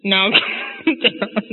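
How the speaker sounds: slow words broken by a real laugh; laughing mid-phrase; breaking into laughter. Real, not acted. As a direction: try to soothe, laugh through it. Breaks up while repeating Papa's line.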